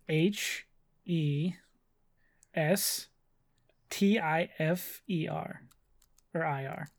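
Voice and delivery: slow, letter by letter; spelling it out. Shown as a demonstration. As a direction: spell it slowly, pausing between letters. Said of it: "the audience needs you to spell it".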